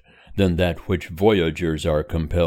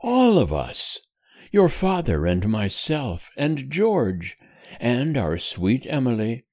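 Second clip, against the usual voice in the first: higher, tender reassuring mother; 5 semitones higher than usual. Acted. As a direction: soothe him like a loving mother. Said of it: "rejoined Missus Temple with tenderness".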